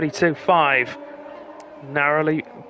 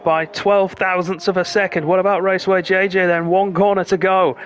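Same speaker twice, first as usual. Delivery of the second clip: excited commentary; 5 semitones higher, 4 dB louder than usual. Real, not acted. Final-corner qualifying climax commentary.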